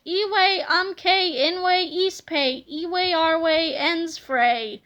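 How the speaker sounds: very slow, carefully spelled-out Pig Latin; boy trying Pig Latin on the cave people, very slowly; mock Pig Latin. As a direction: sound each made-up word out slowly, as if to foreigners. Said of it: "who only spoke one other language".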